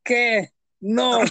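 high, slow nagging parent voice; lightly hammed scolding mother; mock scolding parent.

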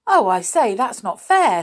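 loud, high cry of protest; boy protesting to teacher; outraged protest. Acted. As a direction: protest the unfairness. Binky protests unfair punishment.

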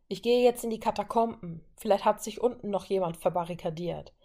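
lightly voiced distant soldier; a hint of a man calling from afar; distant man's voice. Soldier heard from far away in the corridor, lightly voiced man. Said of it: "eine Männerstimme aus der Ferne".

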